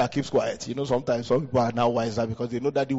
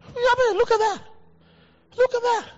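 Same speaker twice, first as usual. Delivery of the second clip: high, loud preaching cry; exclaiming; 3 dB louder than usual. Real, not acted. Pastor rousing the congregation, loud high exclamation. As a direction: call it out to the whole church.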